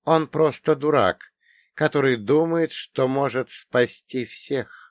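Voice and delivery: high, slow, cold contempt; cold detachment. Acted. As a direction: dismiss him coldly. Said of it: "с холодной отстранённостью".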